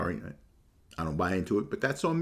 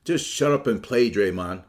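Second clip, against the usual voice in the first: mock Russo; 6 dB louder than usual. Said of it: "Chris Russo's on First Take, talking".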